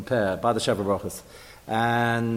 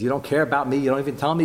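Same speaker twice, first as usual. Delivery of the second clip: normal talking voice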